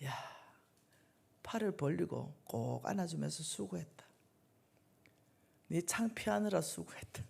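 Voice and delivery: put-on embrace the child with gentle praise; tender fatherly God. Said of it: "아, 우리 하나님 안 그래요". (품에 안고 다독이는 부드러운 아버지 목소리)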